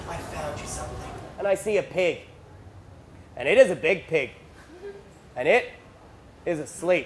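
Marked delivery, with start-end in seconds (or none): 0.1-1.0 barely-there, very quiet whispered hush. Retelling how dad came back from the bushes: imitating dad whispering.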